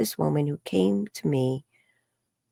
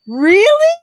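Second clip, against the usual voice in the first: much higher, louder disbelieving question; amazed really; 11 dB louder than usual. Retold or imitated. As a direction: gasp out your astonishment. Retold amazed reaction.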